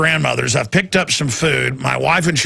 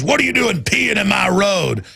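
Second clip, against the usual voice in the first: mock shout, a little higher; retold shout; 4 semitones higher than usual. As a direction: bark it like a cop who owns the road. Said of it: "and says".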